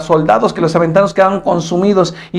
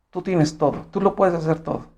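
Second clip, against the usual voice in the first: quiet, humble prayer; soft surrender; 8 dB quieter than usual. Acted. Abraham yields to the Lord in prayer, softly.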